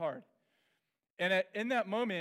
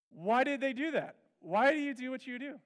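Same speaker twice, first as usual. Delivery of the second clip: raised, higher mock outcry; mock yell; 7 semitones higher, 5 dB louder than usual. Preacher mimics moms yelling at girls, raised voice. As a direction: throw the question out like an angry mom.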